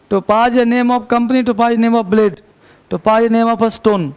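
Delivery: very slow, each word spaced out; slow dictation. Shown as a demonstration. Teacher dictating to the class: very slow dictation. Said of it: "dictating examples".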